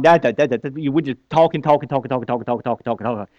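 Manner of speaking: mocking chatter. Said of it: "we just talk and we just talk".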